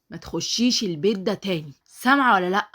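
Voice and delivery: stern order building to a loud demand; angry warning. Acted. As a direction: throw someone out with a final warning. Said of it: "وبكل غضب".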